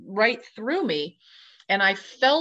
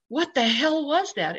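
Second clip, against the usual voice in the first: higher-pitched, freaked-out question; alarmed disbelief; 6 semitones higher than usual. Retold or imitated. Spooked friends in the front yard, alarmed disbelief. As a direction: imitate a spooked friend demanding answers.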